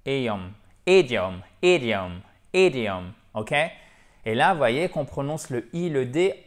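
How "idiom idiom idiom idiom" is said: IDIOM opening straight on the vowel, no H; slow model "idiom", first syllable stressed, falling; idiom without an H. Shown as a demonstration. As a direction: glue I and D in one syllable: "id-iom". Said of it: "sans mettre le H".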